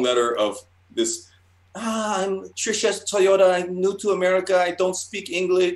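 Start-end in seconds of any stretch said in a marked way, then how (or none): 1.7-5.7 high put-on Asian immigrant accent; hammed-up broken English in a much higher Asian-accented voice; mock Asian accent. Artist reading his fake newcomer's letter, mock Asian accent. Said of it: "I don't know why I'm doing the accent".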